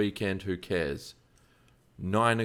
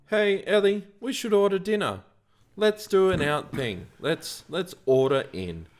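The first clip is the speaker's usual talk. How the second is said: bright, much higher chirpy proposal; cheerful suggestion; 10 semitones higher, 3 dB louder than usual. Retold or imitated. To his wife Ellie about dinner, high chirpy cheer. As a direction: pitch it high and cheery, like a happy idea.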